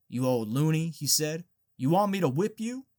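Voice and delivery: scolding threat. Acted.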